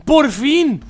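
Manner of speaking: loud high cry of relief; relieved shout. Real, not acted. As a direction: yell it out, at last. Finally beats hard level.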